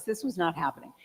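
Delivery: whispered aside. Real, not acted. Telling the audience about her hair, whispered. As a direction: breathe it out as a secret.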